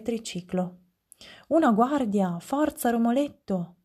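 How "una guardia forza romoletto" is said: acuto e più forte, incita a scappare; allarme concitato. Acted. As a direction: grida di allarme alla guardia. Grido d'allarme di Romoletto. (Romoletto vede la guardia e si incita a fuggire, acuto)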